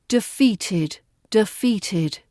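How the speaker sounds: Defeated with all three syllables clear. Shown as a demonstration. Teacher modelling the syllables of defeated. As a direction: sound out de-fea-ted. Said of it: "Three syllables for you".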